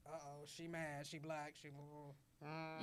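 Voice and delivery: hushed, low gossiping voice; mock whisper. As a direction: murmur it like a wary onlooker. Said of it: "you will perceive me as".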